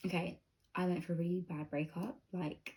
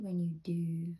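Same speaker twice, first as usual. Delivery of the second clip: library whisper; slower than usual. Real, not acted. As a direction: keep it hushed, people sleeping. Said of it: "I have to whisper because people are sleeping".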